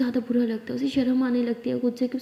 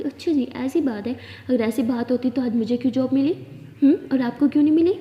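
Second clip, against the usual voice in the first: heated taunt; 3 dB louder than usual. Acted. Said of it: "तो माया ऐसे बोलते जाती है".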